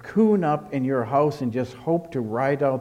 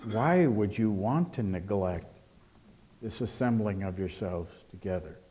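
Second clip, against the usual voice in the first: asking a question; 3 semitones lower, 4 dB quieter than usual. Acted. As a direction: ask it gently, letting WHY stretch. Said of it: "it's as if it asks a question".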